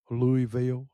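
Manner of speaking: Louisville said as "Louie-vil"; alternative pronunciation. Shown as a demonstration. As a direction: say Louisville with a silent s, "LOO-ee-vil". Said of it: "however you wanna pronounce it".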